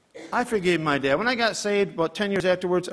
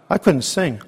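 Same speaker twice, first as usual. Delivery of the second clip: emotional recall; 5 dB louder, slower than usual. Real, not acted. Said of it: "I wept so much in church".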